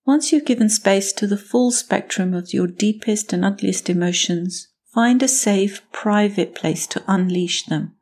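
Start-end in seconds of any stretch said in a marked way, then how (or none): 5.9-7.9 private stretched and weighted, slowed; stress on private. Shown as a demonstration. Podcast host stressing private to listeners, slow emphasis. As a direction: lean on private, slowly. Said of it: "I emphasize the word private here".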